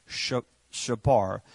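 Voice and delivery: "shabar" spelt out slowly as SHA-bar; Hebrew word said slowly. Shown as a demonstration. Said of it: "The word broken is shabar".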